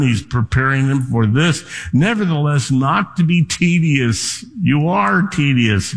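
normal talking voice

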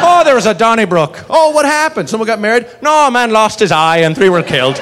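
mock conversation. Pub-goers swapping news of a Donnybrook, mock conversation. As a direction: play out a small misunderstanding. Acted exchange about a brawl.

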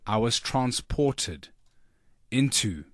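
measured, dramatic storytelling; slow down as the tale turns mysterious; deliberate mock-suspense narration, sinking at the end; story narration. Performs own opening of the story.

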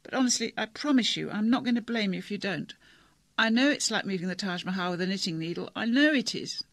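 a touch of crying in a pleading voice; tearful girl. Acted. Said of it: "She was crying".

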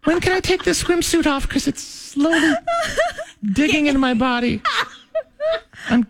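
high falsetto beauty queen; gushing high pageant speech; pageant girl voice. Pretend. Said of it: "You gotta sound like a girl".

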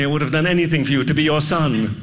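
mock British accent of an actor in a Roman epic. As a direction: play it as a dramatic British-accented son. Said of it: "Why are you doing a British accent?".

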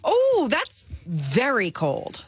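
slow, stretched-out surprised reaction; drawn-out surprise. Real, not acted. Reacts to studio temperature.

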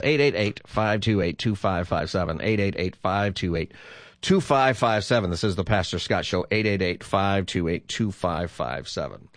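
steady announcer read of the number; phone number read. Acted. Radio host giving listeners the call-in number.

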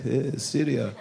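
grave imitation of an audience member; mock serious. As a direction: answer solemnly, in an accent. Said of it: "don't be all serious".

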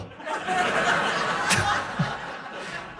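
breathy high-pitched laugh; real amused giggle; high airy giggle. Real, not acted. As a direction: let a squeaky giggle out. Laugh after punchline.

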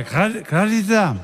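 put-on slow, halting old man's call; drunk father-in-law. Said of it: "le habla el viejo".

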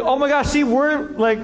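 high, laughing mock panic; panicked laughing. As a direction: laugh through the imagined freak-out. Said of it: "I'd be like".

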